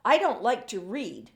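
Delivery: put-on boy protesting to his teacher, loud; shouting. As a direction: call it out in protest. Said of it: "shouts Jacob".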